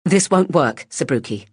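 firm scolding voice; stern. Acted.

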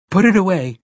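high, alarmed outcry; alarmed cry. A narrator's reading. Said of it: "Mia cried, alarmed".

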